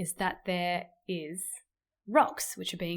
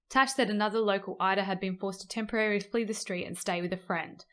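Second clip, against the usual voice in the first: newsreader voice. Acted. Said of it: "I put on the newsreader voice sometimes".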